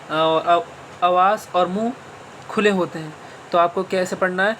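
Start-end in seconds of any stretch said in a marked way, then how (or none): 0.1-0.6 آ said long with the mouth wide open, voice lifted; open aa sound. Shown as a demonstration. Teacher showing the zabar sound, mouth wide open. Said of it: "زبر کی آواز ہے، اوپر کو اٹھتی ہے".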